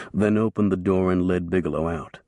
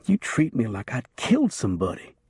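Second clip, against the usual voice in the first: whining; 3 semitones higher than usual. A narrator's reading. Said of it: "Bigelow whined".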